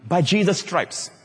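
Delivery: slow, reverent and measured; sense of love. Shown as a demonstration. Preacher modelling confession with a sense of love. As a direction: savor each word slowly. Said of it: "With a sense of his love for you".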